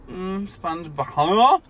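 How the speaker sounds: a moan that jumps into a loud startled huh; hammed-up sudden waking; mock startled wake. Squidward snaps awake.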